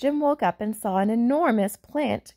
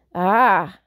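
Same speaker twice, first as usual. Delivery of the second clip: giant voice; 5 dB louder than usual. Acted. Old giant voiced at door.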